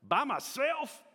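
high shocked squeak; shocked question, way up high; a child aghast at walking alone; surprised. Retold or imitated.

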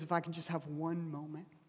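softly plead, holding back; hushed plea. Acted. Job longing for an encounter with God, hushed plea.

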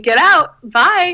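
breezy, smiling kiss-off; cheery smile. Retold or imitated. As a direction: send them off with a big, sweet smile. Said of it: "with a big smile on my face".

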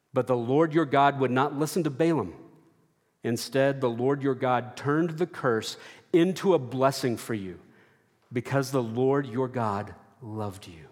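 steady, formal reading of scripture. Shown as a demonstration. Preacher reading Deuteronomy aloud, steady scripture voice. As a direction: read the verse aloud to the congregation. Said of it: "I should appropriately read Deuteronomy".

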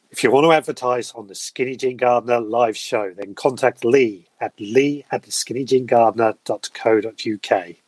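measured announcer read, slowing at the end; broadcasting voice. Shown as a demonstration. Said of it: "I'll do a, a broadcasting voice".

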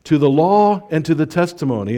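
high, loud rallying call; ringing charge to the congregation; proclaimed like a battle cry. Shown as a demonstration. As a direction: lift it up like a banner slogan. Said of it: "a mantra".

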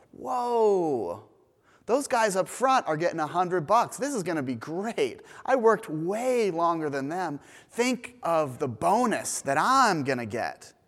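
an excited whoa, lightly voiced greedy hope; eager workers. Workers at the back of the line, lightly voiced excitement. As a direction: play the worker counting his bonus.

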